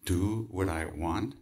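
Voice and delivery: slow, stunned "Do what I want?" with rising tune; incredulous echo. Acted. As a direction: repeat it slowly, disbelieving. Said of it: "incredulous echo of guru".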